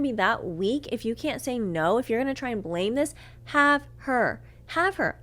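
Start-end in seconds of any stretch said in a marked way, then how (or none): 3.5-5.2 high-pitched, emphatic brush-off; indignant, done-with-you dismissal; scornful surrender. Retold or imitated. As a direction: hand them over with disdain, voice lifted. Retold scornful giving up of boyfriend.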